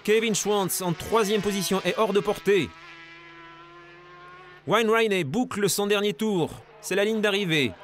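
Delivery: live race play-by-play; motorsport commentator. Acted. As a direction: call the lead change live.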